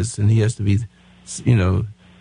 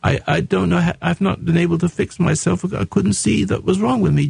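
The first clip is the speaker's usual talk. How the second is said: a lightly voiced mother talking to her little boy; voicing the mother to her son; 5 semitones higher than usual. Host voicing the mother apologising to her son, lightly voiced. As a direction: model the apology for her, gently. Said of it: "say, Joey".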